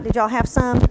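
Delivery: usual speaking voice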